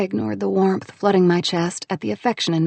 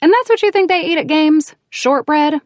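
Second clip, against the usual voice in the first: snorting disbelief; 9 semitones higher, 6 dB louder than usual. A narrator's reading. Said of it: "I said with a snort".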